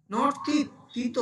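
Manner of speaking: তিত said with a short, clipped final t; শুদ্ধ উচ্চারণে তিত; correcting pronunciation. Shown as a demonstration.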